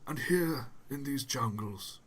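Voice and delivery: documentary voiceover impression; David Attenborough. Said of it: "it's just like talking to David Attenborough".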